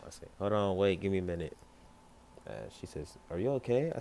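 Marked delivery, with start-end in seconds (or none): 0.4-1.6 loud, hurried hold on; flustered call. Acted. Caught half-dressed, he calls out to Weiss, flustered. Caught changing as door opens. 3.3-3.9 higher, louder concerned question; Weiss, concerned. Acted. Weiss asks through the door, higher and concerned.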